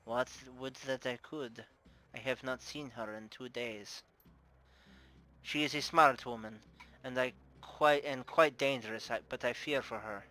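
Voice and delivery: put-on understated worry in a Russian accent; darkened Russian accent. Bar owner fearing for her missing worker, subdued Russian accent. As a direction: confide concern, lightly Russian-accented. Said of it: "Her face darkens".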